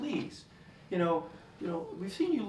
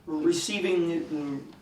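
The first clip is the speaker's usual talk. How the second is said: raised voice, repeating his name; loud intervention; 5 dB louder than usual. Acted. Therapist reining in an angry patient, loud interruption. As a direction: cut in loudly to rein him in.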